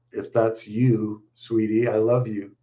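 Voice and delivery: slow, tender words to a daughter; slow and choked up, a father's real emotion; tender, close to tears. Real, not acted. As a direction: speak gently, holding back tears. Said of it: "you're gonna make me cry".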